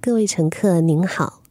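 slow, formal boarding call; airport announcement. Shown as a demonstration. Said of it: "会跟你讲说".

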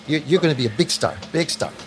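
quick imitated Filipino accent; a light Filipino accent, said fast. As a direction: mimic a Filipino interviewer's promise. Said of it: "in a Filipino accent".

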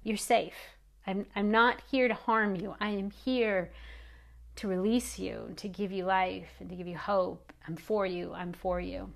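gently, to comfort; reassuring. Shown as a demonstration. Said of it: "a container that also says".

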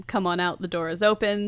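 lightly imitated French accent; a hint of a fake French accent. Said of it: "She's got a very strong, like, wee wee French accent".

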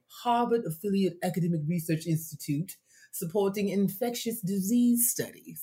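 put-on, stretched-out Harvard accent. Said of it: "That's my Harvard accent".

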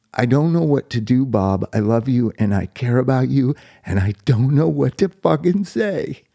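exasperated but caring friend, rising at the end; frustrated. Retold or imitated. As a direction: imitate a friend helplessly frustrated out of love. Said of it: "he was frustrated".

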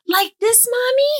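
put-on high little girl asking, rising; toddler voice. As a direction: voice a tiny toddler asking Mommy. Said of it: "now when she says".

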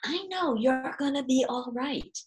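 put-on soft reassurance for a worried child; reassuring to a child. Shown as a demonstration. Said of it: "that same sentence with the eleven-year-olds".

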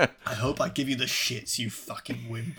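put-on light Geordie accent, quiet; a hint of Geordie, trailing off. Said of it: "He's this proper Geordie".

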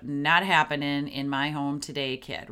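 put-on firm parent voice, dropping low on "kid"; firm, confident. Shown as a demonstration. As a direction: shut it down with confidence, pitch falling away. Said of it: "very firm, structured, like, confident".

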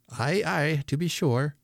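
put-on high-pitched agreeable old man; Father Christmas. A narrator's reading. Deaf old man agreeing with a child, high-pitched. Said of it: "said he in a high-pitched voice".

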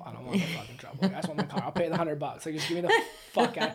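pleading through laughter; chuckling mock surrender; laughing plea. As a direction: beg to just get the car back, laughing. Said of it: "And I'm like".

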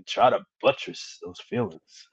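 slow, soft imitation Southern drawl; lightly imitated Southern drawl, quietly drawn out. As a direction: stretch it out in a mock Southern accent. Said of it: "especially with that Southern drawl accent".

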